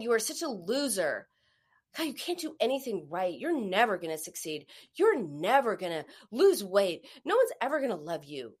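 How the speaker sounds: a lightly voiced, scolding inner critic; a hint of a harsh critic berating herself; mean inner critic. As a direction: tear yourself down the way your inner critic does. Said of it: "in the second person voice like this".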